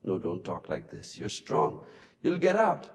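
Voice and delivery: tearful wife, voice dropping away; sobbing. Acted. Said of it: "Lisa sobbed into the phone".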